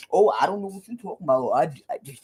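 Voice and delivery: fast, stammering mock innocence; caught pastor. The caught pastor dodging the accusation, fast mock innocence. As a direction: dodge with head tilted aside. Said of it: "his head gonna go to the side".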